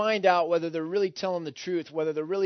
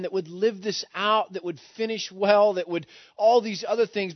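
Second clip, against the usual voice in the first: higher, emphatic appeal as Jesus; voicing Jesus; 4 semitones higher, 4 dB louder than usual. Preacher speaks as Jesus to his chosen listeners, emphatic appeal. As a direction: press the plea in a raised pitch. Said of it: "he's saying".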